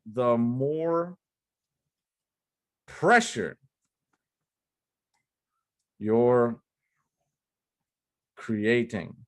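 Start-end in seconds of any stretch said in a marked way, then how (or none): 2.9-9.1 long pauses between pressure, you're, creating; slow pauses. Shown as a demonstration. Coach spelling out the cardinal rule slowly. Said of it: "I'm gonna underline this word".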